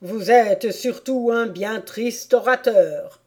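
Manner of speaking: loud, slow royal rebuke; disdainful verdict from the bench; scornful King. Acted. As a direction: pronounce the insult deliberately.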